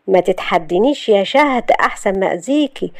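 understated menacing warning; controlled threat. Acted. Youssef warning Shahd not to challenge him, restrained threat.

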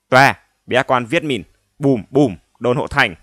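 put-on loud barking broken French accent; fake French accent. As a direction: bellow in mock broken French. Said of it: "giả giọng Tây lơ lớ, hỏi to như quát".

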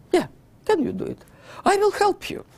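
hammed-up eager promise of help; mock eager Stalin. Stalin eagerly offering Hitler help, mock high voice.

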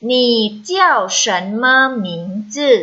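measured syllables for learners to repeat; read-after-me model. Shown as a demonstration. Teacher leads students reading Chinese after her, measured model reading. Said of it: "อีก อีกหนึ่งรอบค่ะ".

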